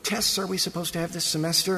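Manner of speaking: quick, offhand student question; a hint of a student asking the professor; lightly voiced student. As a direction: toss it off like a restless student. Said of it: "student says".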